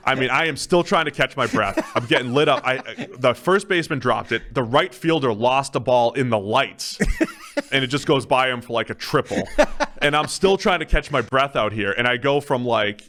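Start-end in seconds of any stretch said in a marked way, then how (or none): 0.1-11.9 chuckling through the story; laughing. Real, not acted. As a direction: laugh while you tell it. Laughing through bad outing story.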